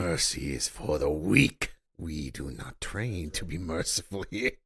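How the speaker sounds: mock movie-villain accent rising to a shout; Kreese-quoting accent impression. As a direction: ham up the sensei's accented threats, ending in a yell. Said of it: "That's a tiny bit racist what you were doing".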